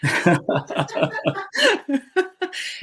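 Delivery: bright high laugh. Real, not acted. Laughs at compliment.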